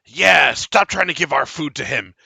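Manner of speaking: angry peasant shouting at the large man; peasant calling out. Acted. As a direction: yell it from the back of the crowd. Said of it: "one of the peasants call out".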